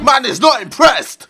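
loud exasperated yell; shouting. Real, not acted. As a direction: shout it over the noise. Shouting mid obstacle.

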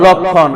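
"লক্ষণ" with a long kkh and silent m; kkh, silent মফলা. Shown as a demonstration. Teacher answers what we will say, লক্ষণ as lokkhon. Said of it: "কি উচ্চারণ হয়েছে?".

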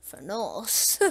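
"furnace" said as fur-NOSS; joking mispronunciation of furnace. Shown as a demonstration. Gamer playfully mangles a word for viewers, "furnace" as fur-noss. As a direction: say "furnace" with an "oss" ending. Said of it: "that's how I pronounce it".

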